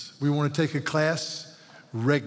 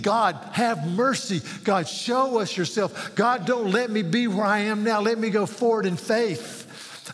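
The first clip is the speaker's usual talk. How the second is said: raised, slow earnest plea to God; pleading prayer; 6 semitones higher than usual. Retold or imitated. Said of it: "you're continually pleading".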